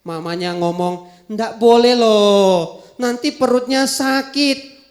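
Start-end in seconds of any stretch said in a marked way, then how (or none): 1.3-4.9 mother voice. Acted. Mother refuses again.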